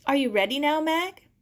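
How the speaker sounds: high, loud check; urgent. Acted. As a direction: push her gently but quickly. Urging friend onward.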